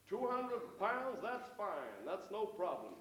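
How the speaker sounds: mock-American tourist, drawn out at first; American accent. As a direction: agree easily in a put-on American accent. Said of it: "that's my American accent".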